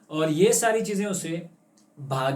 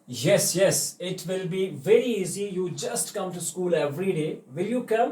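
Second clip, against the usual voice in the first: reassuring teacher; 3 semitones higher, much slower than usual. Acted. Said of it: "teacher reassuring the child".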